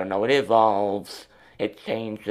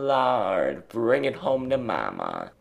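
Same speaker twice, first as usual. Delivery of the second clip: preacher voice; 3 semitones higher, 4 dB louder than usual. Pretend. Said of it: "how the, uh, Christian people like to say Lord".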